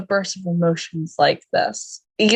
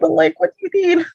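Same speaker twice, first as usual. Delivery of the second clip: high-pitched, pleading concern; mock-concerned fussing; 11 semitones higher, 3 dB louder than usual. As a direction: plead to help, half playfully. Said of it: "seeing him broken like this is like".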